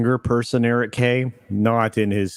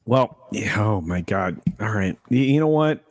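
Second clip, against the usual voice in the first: empty warehouse echo; 3 semitones lower than usual. Real, not acted. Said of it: "Why does Culture sound like he's in a warehouse?".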